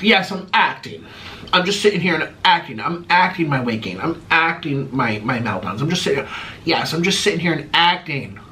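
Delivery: dry mocking sarcasm; deadpan sarcastic agreement. Real, not acted. Answers "Is this all an act?.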